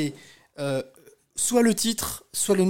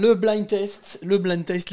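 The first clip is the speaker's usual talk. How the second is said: game-show announcement; 4 semitones higher, 4 dB louder, slower than usual. Real, not acted. Announcing the blind test game.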